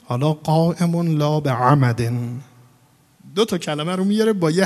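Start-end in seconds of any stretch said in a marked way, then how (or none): 0.3-2.1 "عمد" with a pharyngeal ayn at its start; ayn from throat. Shown as a demonstration. Teacher contrasts the rhyming phrases, throaty ayn in "عمد". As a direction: bring the first sound of "عمد" from the throat.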